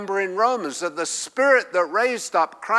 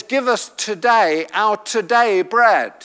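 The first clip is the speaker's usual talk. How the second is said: raised pitch, both "today"s punched; stress on the repeated TODAY; 4 semitones higher, 4 dB louder than usual. Shown as a demonstration. Preacher pointing out the unheard redundancy, both "today"s stressed. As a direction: hit "today" each time it comes. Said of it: "that there's a redundancy".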